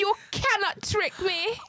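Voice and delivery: slow, high-pitched Jamaican mimicry; Jamaican meme impression. Showing the co-host again how it goes, Jamaican accent. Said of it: "are you Jamaican?".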